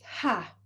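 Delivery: audible exhale on "ha"; demonstrated breath out. Shown as a demonstration. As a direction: let out a short sighing breath. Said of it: "I need you to breathe".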